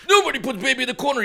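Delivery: fast, hammed-up declaration; a hint of a dramatic movie hero; mock hero line. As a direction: rattle off the famous line in a mock-heroic voice. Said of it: "And he's like".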